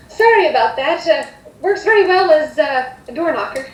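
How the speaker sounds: lightly voiced, apologetic hostess. Mother excuses screaming toddler to guests, lightly apologetic. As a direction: excuse the noisy child with a little joke.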